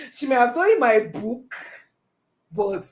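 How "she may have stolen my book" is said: "book" stretched at the end, high and playful line; stress on BOOK. Shown as a demonstration. Coach offering another stolen thing, stress on "book". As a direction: land on "book" as the alternative. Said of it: "I didn't say money".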